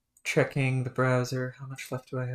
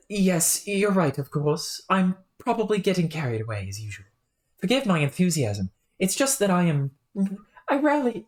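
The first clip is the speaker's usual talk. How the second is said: put-on British accent. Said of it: "whenever I break accent".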